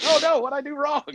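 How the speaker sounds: high-pitched mock panic; exaggerated oh-no dismay; retold alarm. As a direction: act out a worried yelp, way up high. Retells own alarm at boss's call.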